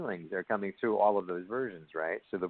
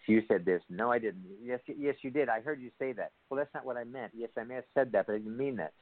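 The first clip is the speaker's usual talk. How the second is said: higher-pitched back-and-forth squabble; mock bickering; 5 semitones higher than usual. Couple quarrelling over who said what, mock bickering. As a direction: play both sides of a petty argument.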